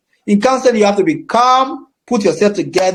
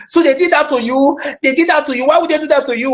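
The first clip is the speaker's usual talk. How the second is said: mock angry counselor; 5 semitones higher, faster than usual. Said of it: "and be angry".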